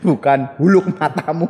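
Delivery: giggling, mock-teacher voice; laughing imitation. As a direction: mimic the host's teaching style while cracking up. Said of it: "Coba kalau Papa Cang ngomong".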